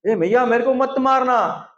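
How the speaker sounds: high, whiny pretend crying; hammed-up little-boy pleading; fake tearful child. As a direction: plead like a child forcing out tears. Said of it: "जबरदस्ती उसको घुसा घुसा के आंसू निकाल रहे हैं".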